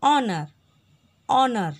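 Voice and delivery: ऑनर said loud, opening on ऑ; silent h. Shown as a demonstration. Teacher drilling honor for the class. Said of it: "N".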